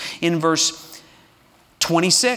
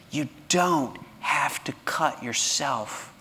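slow, softer reassuring plea; tender appeal; 3 dB quieter, slower than usual. Real, not acted. Pastor speaks to those who self-harm, slow tender reassurance. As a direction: comfort the hurting listener gently.

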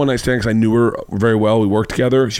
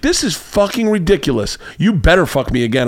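mock indignant demand; 6 semitones higher than usual. Woman's angry demand retold.

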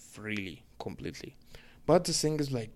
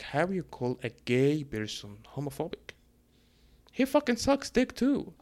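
incredulous outburst; 4 semitones higher, 4 dB louder than usual. Retold or imitated. Telling his gay friends what he thinks, rising incredulous yell. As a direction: pitch shooting way up, louder on the last words. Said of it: "I'm like".

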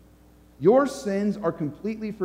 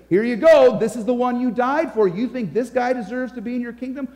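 higher, indignant accuser; a touch of mock outrage, pitched up; devil tattling; 6 semitones higher, 4 dB louder than usual. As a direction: present the evidence like a petulant tattletale. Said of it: "he says".

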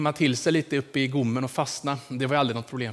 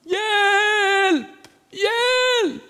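high, loud repeated cries of help, climbing higher; old woman crying for help; 7 dB louder, much slower than usual. Retold or imitated. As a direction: call out for help from the bedroom. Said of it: "hur de ropade". (höga, starka rop på hjälp som stiger)

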